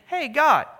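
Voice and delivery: lightly voiced indignant plea; mock complaint to God. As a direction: call up to God in protest. Voicing Israel's complaint to God.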